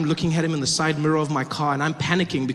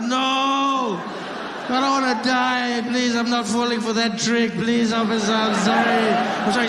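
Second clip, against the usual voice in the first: higher, drawn-out begging sorry; pleading apology; 4 semitones higher than usual. Retold or imitated. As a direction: plead with the officer, stretch sorry. Begging the officer.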